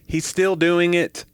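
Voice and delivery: high, drawn-out tattling; mock-exasperated complaint, stretched out; acted complaint. Woman complains to store owner in joke.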